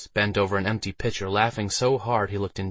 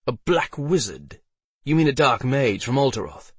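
measured, incredulous query; startled knight's question; 5 semitones higher, 4 dB louder than usual. A narrator's reading. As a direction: echo it back in sober disbelief. Knight echoes the news, taken aback.

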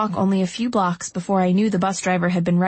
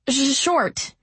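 chattering with cold; teeth chattering; 6 semitones higher than usual. A narrator's reading. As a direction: shiver through the words. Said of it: "I chattered".

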